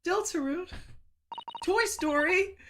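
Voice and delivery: high, loud gleeful yells; excited shout. Real, not acted. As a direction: blurt each name out loud and thrilled. Shouting gleeful guesses at game.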